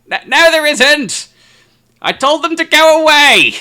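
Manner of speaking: high, loud, slow bellow; old man shouting back. Acted. Old man yelling back to his wife upstairs, loud high holler. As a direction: holler back up the stairs, annoyed. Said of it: "he shouts back up".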